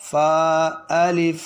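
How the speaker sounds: فا kept short before الف, slow and clear; don't stretch فا, just say فا الف; fa not drawn out. Shown as a demonstration. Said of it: "اب فا کو زیادہ لمبا نہیں کرنا". (فا کو لمبا نہ کریں)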